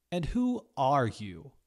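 the returning chef confronts the newcomer; haughty challenge. A narrator's reading. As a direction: look down on her with it. Johnny challenging Maddie.

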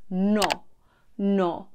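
no with rounded lips held open to the end; open Italian no. Shown as a demonstration. Teacher demonstrating Italian no with open lips. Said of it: "pronounced with rounded lips that stay open".

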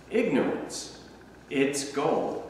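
hushed, reflective repetition of the phrase; soft echo. Acted. Echoing the quote, softly repeated.

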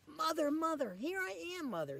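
high eager call. Acted. Baby bird calls the big thing, high eager call. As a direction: call out hoping she hears.

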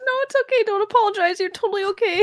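high-pitched, gentle reassurance; reassuring. Real, not acted. Streamer telling guest not to apologize, high reassuring tone. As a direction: soothe them in a high voice.

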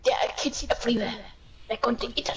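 fast unvoiced whisper. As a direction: hush it like a secret. Whispered joke.

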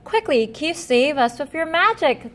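high frightened yelp; a touch of panicked squealing. Acted. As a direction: cry for help in a panic. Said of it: "the cat squealed in panic".

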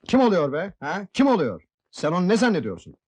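indignant, pitch pushed up; angry confrontation. Acted. Husband challenges wife over who her cousin is, angry. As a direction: challenge them with sharp rhetorical questions.

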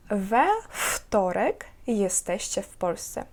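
slow, careful dictation pace. Shown as a demonstration. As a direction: read it out slowly for students to write. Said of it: "повторювати за мною". (повільне диктування)

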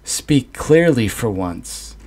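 in a rage, demand she speaks plainly; enraged son demanding a clear answer. Acted. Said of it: "I stood up in a rage".

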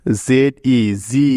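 জি with a long, drawn-out ee after the letters; long vowel sound. Shown as a demonstration. Teacher shows students why it sounds so, long ee in জি. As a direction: spell it slowly, then hold the ee in জি. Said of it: "ই ভাওয়েলটার এখানে long sound হয়েছে".

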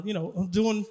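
normal talking voice

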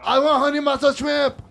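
lightly put-on Chinese lady accent, laughing; a hint of a mock accent ordering food. Ordering shrimp in a lightly put-on accent. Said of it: "talking like a Chinese lady".

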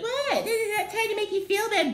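very high, laughing mock innocence; fake innocent voice. Mocking passive-aggressive single-shamers, high and giggly. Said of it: "They be like".

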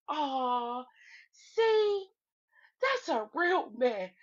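imitating a panel of women swooning; adoring cooing. Every woman on the panel admiring Omar, mock adoring. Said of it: "uncovers a little baby and everybody goes".

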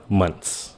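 "months" with the th dropped and the s hissed out; just hiss the s at the end of "months"; months with an s sound. Shown as a demonstration. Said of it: "Chỉ cần nói month". ("months" bỏ lưỡi, chỉ xì âm s)

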